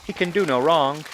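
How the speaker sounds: high-pitched mock gushing; mocking doting grandparents. Grandchild imitating grandparents fawning over their favorite, mock-doting high voice. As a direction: coo sarcastically over the favorite child. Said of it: "my grandparents just sit back and watch. They're like".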